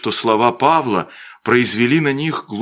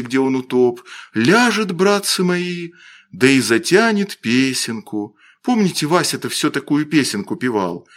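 put-on slightly raised, lilting storyteller boy; lightly voiced village boy, mournful; 3 semitones higher than usual. Костя tells the boys of drowned Вася, lightly mournful. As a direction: tell it with wistful feeling.

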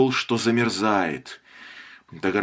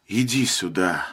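tender; 5 semitones lower than usual. A narrator's reading. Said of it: "нежно позвал он".

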